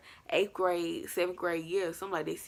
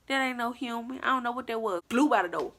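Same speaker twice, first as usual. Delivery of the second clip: higher-pitched disbelief; incredulous; 6 semitones higher than usual. Real, not acted. Storyteller marvels at figure passing the door, incredulous. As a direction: pitch it up, refusing to believe it.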